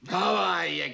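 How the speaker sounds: usual speaking voice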